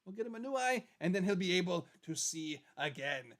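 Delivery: short of breath, running low on air; out of breath, pushing the words out. Real, not acted. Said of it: "I'm running out of breath".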